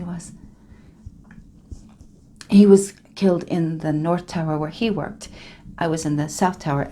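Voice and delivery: character monologue. Acted. Character monologue, Spanish woman.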